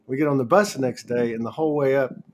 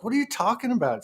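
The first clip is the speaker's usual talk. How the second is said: high, incredulous retold question; baffled question; 10 semitones higher than usual. Answering the friend's claim, high and incredulous. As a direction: ask it like it makes no sense.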